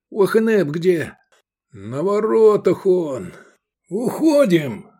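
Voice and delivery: high, stretched calls; urgent shouting. A narrator's reading. Comrades shout during the escape, urgent calls. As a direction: call it out high across the camp.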